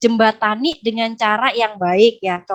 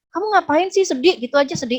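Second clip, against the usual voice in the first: higher-pitched mock belittling; dismissive husband; 5 semitones higher, faster than usual. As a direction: imitate a husband brushing off his wife's tears. Husband belittles crying wife, acted. (menirukan suami yang meremehkan)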